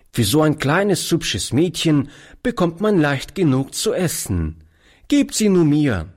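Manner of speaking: high, lightly voiced young boy; a ragged boy chatting to an old man; lightly voiced cheeky street boy. A narrator's reading. Boy pleads to keep girl.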